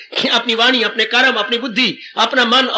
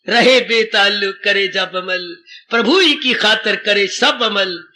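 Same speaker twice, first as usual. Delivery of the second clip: slow verse recitation; 2 semitones lower, slower than usual. Shown as a demonstration.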